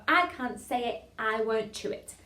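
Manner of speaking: slow, careful diction; tongue-twister demo. Shown as a demonstration. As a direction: say it slowly for a class to copy. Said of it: "we're gonna put".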